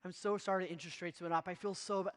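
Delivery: a hammed-up grovelling apology; overly apologetic. Shown as a demonstration. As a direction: lay the sorry on thick, fading to a murmur. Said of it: "Overly apologetic sounds like this".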